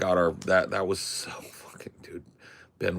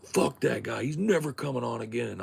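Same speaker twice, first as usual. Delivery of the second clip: retold tirade; 7 semitones higher than usual. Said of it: "went on a tirade".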